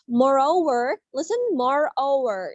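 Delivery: MOREOVER with a gliding O; teacher demonstrating the O in "moreover"; O pronunciation. Shown as a demonstration. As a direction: model "moreover" carefully. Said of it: "it sounds like that".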